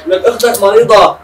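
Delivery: slow, loud, high reproach; angry yell. Acted. Father rebuking his son over his sick sister, angry yell. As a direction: drag each word out in anger.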